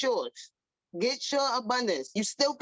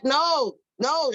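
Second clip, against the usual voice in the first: emphatic no; 5 dB louder than usual. Real, not acted. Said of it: "emphatic correction".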